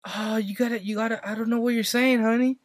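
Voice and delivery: mock confusion in a lifted voice; confused lady. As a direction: imitate a puzzled lady calling someone honey. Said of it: "the lady's tripping out".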